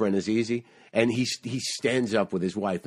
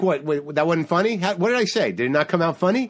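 higher, indignant retold questions; mock disbelief; 5 semitones higher than usual. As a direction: act out challenging a crowd that won't laugh. Acted challenge to a silent room.

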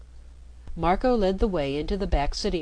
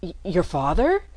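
stammered, stunned question; stammering; 2 semitones higher, 4 dB louder than usual. Acted. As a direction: stumble over the first word. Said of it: "Marco stammered".

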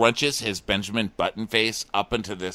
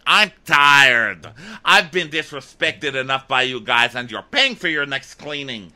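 higher, worked-up retold outburst; mock indignant; 4 semitones higher, 3 dB louder than usual. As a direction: act out her fed-up rant, punching the opening. Acting out her angry outburst.

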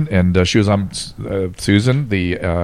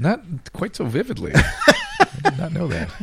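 laughing; 10 semitones higher, 4 dB quieter, slower than usual. Real, not acted. Laughing surprise.

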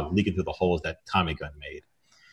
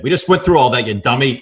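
mild mock yell; 4 semitones higher, 6 dB louder than usual. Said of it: "I yelled".

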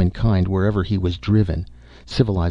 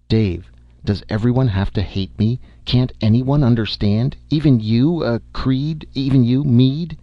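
anguished plea; 5 semitones higher than usual. Acted. Holliday begs the men not to hate him, anguished and pleading. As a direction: beg them to understand you.

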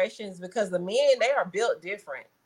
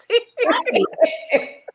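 loud, high cackling laugh; high burst of laughter; 12 semitones higher, 5 dB louder than usual. Real, not acted. Mom laughing at her daughter's joke, loud high cackle. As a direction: let out a big high cackle.

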